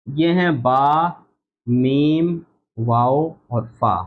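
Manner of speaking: slow, careful बा, मीम, वाओ, फा said with the lips; lip letters demo. Shown as a demonstration. Teacher sounds out lip letters slowly for students. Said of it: "होंठों से पढ़े जाने वाले हुरूफ".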